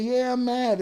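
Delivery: admitting anger. Real, not acted. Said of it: "You mad?".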